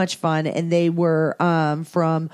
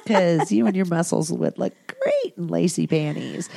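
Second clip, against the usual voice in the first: flirty teasing voice. Retold or imitated. Teasing the military guys.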